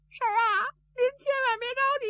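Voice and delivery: high, sobbing voice pleading; pleading with his aunt through sobs; crying plea. Acted. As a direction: beg her not to worry through tears. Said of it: "你别哭".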